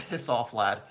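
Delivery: slow, laughing through a bad British accent; British accent attempt. Shown as a demonstration. Streamer admitting he can't do a British accent, giggling attempt. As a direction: try a British accent and crack up. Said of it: "I can't do a British accent".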